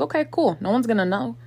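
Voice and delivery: loud, goading jeer at his own laziness; mocking trash talk. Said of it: "trash talks himself".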